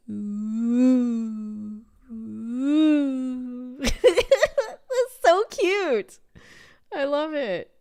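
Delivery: high, loud cooing with laughter; cooing delight. Real, not acted. Teacher cooing to viewers at a cute exercise title, laughing. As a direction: coo over it as if at a puppy.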